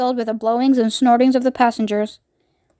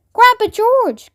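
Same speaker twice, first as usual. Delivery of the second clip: high, slow, loud call; boy crying out; 10 semitones higher, 4 dB louder, slower than usual. Acted. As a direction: call out to grandpa. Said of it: "cried Charlie".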